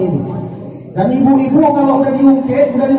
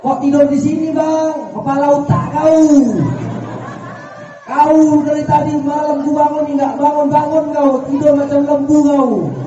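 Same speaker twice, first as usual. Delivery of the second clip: higher mock tirade, insulting and fed up; angry scolding; 6 semitones higher than usual. Wife rages at husband sleeping by the door, higher mock fury. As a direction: scold him like a furious wife who couldn't wake him. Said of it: "Ngamuk bukan main suami".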